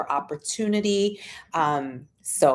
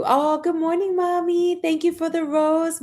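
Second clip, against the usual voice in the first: happy greeting; 10 semitones higher than usual. Real, not acted. Greeting her mom on stream.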